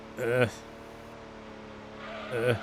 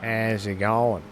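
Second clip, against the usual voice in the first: slow, lightly drawled Aussie twang greeting; a hint of a put-on Aussie accent, slow; mock Aussie twang; slower than usual. Player greeting viewers in a put-on Aussie twang. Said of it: "I don't normally talk like this".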